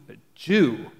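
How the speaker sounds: Jew leaned on, set apart from the words around it; a Jew given weight in the quote; stress on Jew. Shown as a demonstration. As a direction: land firmly on "a Jew". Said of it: "I put the emphasis on Jew there".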